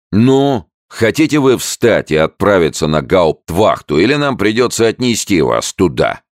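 loud, high shouted ultimatum; sergeant shouting. A narrator's reading. Sergeant yells at the soldier to go to jail, loud. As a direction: yell the choice at him. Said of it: "крикнул сержант".

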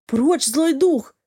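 slow, fearful warding-off mutter; a stepmother pushing away a spirit in dread; frightened muttering. A narrator's reading. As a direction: drag out the words as if facing a ghost. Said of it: "пробормотала мачеха".

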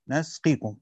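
"a" vowel after the n in نسقيكم; fatha on the nun. Shown as a demonstration. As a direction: say نسقيكم as "nasqikum". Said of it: "بفتح النون ها هنا".

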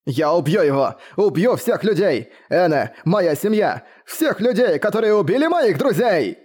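high, slowed, anguished cry; crying out in rage. A narrator's reading. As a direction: rage and grief at the killers, pitched high. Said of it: "Он продолжал кричать".

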